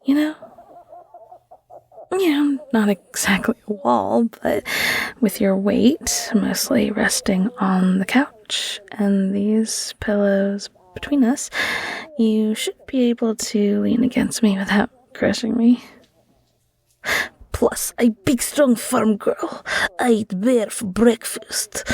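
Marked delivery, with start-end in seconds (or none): 2.1-15.8 gentle caring whisper to a sick partner; tender bedside whisper, unhurried. Acted. Caring ASMR whisper roleplay. 17.5-21.8 a light put-on country farm-girl accent; a playful mock farm-girl accent; hammed-up farm girl accent. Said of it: "That was an immaculate accent".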